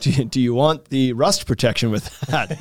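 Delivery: slow smarmy upsell pitch; slick used car salesman. Acted. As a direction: play the pushy upsell, slowly. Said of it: "Now you sound like a used car salesman".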